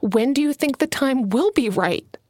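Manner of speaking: firm, controlled edge; understated steel in the voice; steely. Acted. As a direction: press the question with restrained anger. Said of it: "steel filled each word".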